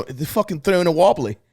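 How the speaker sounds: put-on accidentally Australian-sounding slang accent; mock accent drifting towards Australian; attempted British, sounding Australian. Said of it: "that sounded Australian".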